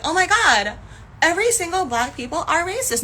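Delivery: high, loud imitation of alarmed commenters; mock outrage. Imitating commenters who generalize, mock horror. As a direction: exaggerate their sweeping panic. Mocking commenters' sweeping panic.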